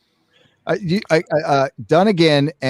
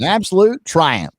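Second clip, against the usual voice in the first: lightly voiced hillbilly praise; mock grand hillbilly verdict; hillbilly accent. Cohost says the line on request in a light hillbilly accent. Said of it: "say it's a triumph in that hillbilly accent".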